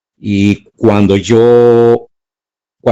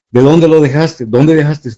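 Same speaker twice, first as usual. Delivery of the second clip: retold angry demand; 7 semitones higher, 4 dB louder than usual. Interrogator pressing for answers.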